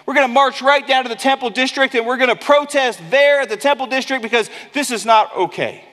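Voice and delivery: fired-up, fast rallying call; militant. Retold or imitated. Apostles imagine revolt, a touch of militant fire. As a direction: rouse the crowd to march. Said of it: "They could have got militant".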